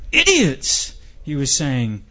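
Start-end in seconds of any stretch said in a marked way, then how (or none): 0.1-0.9 high-pitched exasperated outburst; worked up. Acted. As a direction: blurt it out high, imitating a man about to explode. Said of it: "He was getting so worked up".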